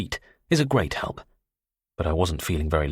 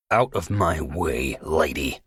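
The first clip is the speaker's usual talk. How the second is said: venomous; 2 semitones lower, slower than usual. Acted. Tony fending Susan off, slow and venomous. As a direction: shove her aside with pure malice. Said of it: "such concentrated venom and malignance".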